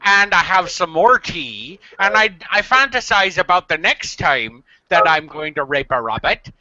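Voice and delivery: put-on rural accent. Dubbing the video speaker, lightly rural accent. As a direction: voice the guy as a country bumpkin. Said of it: "I made him rural. I just like the accent".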